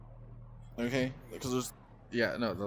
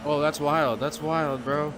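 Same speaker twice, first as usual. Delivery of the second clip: louder, amazed outburst; excited outburst; 3 semitones higher, 5 dB louder, slower than usual. Real, not acted. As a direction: blurt it out in shock. Reacts to crash.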